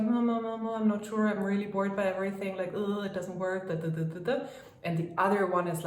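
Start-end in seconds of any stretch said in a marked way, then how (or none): 0.0-4.4 fading, bored and doubtful grumble; bored, unsure. Shown as a demonstration. Coach mimicking a bored, doubting affirmation that trails off. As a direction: whine it like nothing ever works. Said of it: "One is like".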